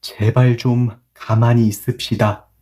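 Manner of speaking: read slowly. Shown as a demonstration. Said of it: "천천히 읽을게요".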